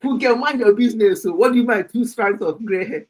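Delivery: loud, bantering comeback; playful scolding. Real, not acted. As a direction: tell off a teasing friend in jest. Playfully scolds a viewer teasing her.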